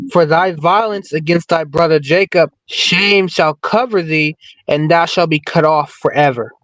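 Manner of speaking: measured, deliberate verse reading; scripture reading. Real, not acted. Panelist reading a verse from Obadiah to the group, scripture reading. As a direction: read the verse out steadily. Reads a Bible verse aloud.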